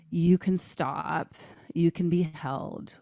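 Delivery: slow and soft, soothing; tender voicing. Voicing what her partner's hug told her, slow and tender. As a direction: gently voice the partner's comforting hold.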